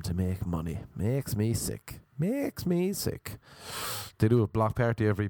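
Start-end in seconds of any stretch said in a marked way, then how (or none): 1.0-2.0 slow, disgusted complaint at usual pitch. Real, not acted. Ranting about bars cashing in on Irish names, disgusted. Disgusted rant, said then exaggerated. 2.2-3.4 high, drawn-out mock disgust; exaggerated disgust. Real, not acted. Ranting about bars cashing in on Irish names, exaggerated disgust.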